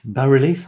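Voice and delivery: "bas-relief" as bah-ri-LEEF; half-English pronunciation. Shown as a demonstration. Unsure how English says it, trying "bas-relief" as bah-ri-LEEF. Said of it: "how you say it in English".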